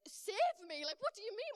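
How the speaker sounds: high, loud baffled protest; acted incredulity. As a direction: protest in disbelief, pitched right up. Acted baffled plea to rescuer.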